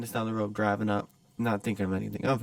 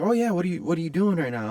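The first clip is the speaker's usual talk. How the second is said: high, louder nervous imitation; higher-pitched mock voice; timid stranger; 8 semitones higher, 5 dB louder than usual. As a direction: pipe up as the awkward guy. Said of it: "talking like this".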